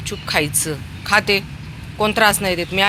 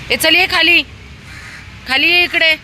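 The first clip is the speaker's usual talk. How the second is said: raised, high-pitched summons; calling out; 12 semitones higher than usual. Real, not acted. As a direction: call the puppy over from a distance. Calling dogs down to eat.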